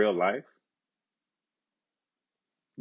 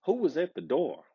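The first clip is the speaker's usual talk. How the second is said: king asking; 5 semitones higher, 5 dB quieter than usual. A narrator's reading. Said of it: "asked the king".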